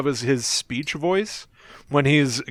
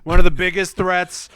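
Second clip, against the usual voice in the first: Trump impression; 3 semitones higher than usual. Shown as a demonstration. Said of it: "so I can do him".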